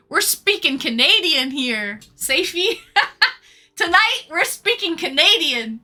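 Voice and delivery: words broken by real laughter; laughing. Real, not acted. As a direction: giggle out the inside joke. Laughing at inside joke.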